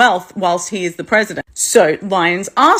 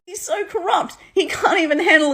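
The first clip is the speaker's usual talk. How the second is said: laughing; 9 semitones higher than usual. Real, not acted. Laughing at Trump's corruption.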